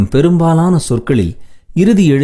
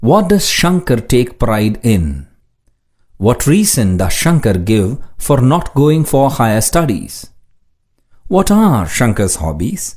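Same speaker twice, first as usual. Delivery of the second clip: slow, deliberate question reading; slow dictation reading; much slower than usual. Shown as a demonstration. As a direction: read each question slowly for learners. Reads comprehension questions slowly.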